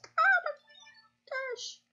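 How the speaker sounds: high shocked cry; startled. Real, not acted. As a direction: gasp it out in shock. Nearly caught by the bear.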